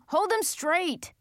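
high, drawn-out yelled order; yelling. A narrator's reading. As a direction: yell the order slowly and high. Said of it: "Lenny Sue was yelling".

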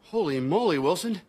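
high, exaggerated wonder; hammed-up, high-pitched amazement; mock amazement. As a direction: feign huge excitement over nothing. Mocks neighbor's excitement over rock.

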